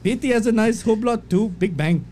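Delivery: put-on botched Irish accent that sounds Indian; failed Irish-Indian accent mash-up; fake Irish gone Indian. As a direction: read in mock Irish, sliding into Indian. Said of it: "You sound like, uh, Indian".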